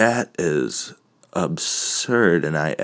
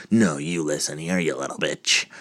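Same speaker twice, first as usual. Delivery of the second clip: softly menacing retold villain; creepy caller; 4 dB quieter than usual. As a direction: lightly imitate a sinister caller. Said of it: "kinda seductive but kinda creepy voice".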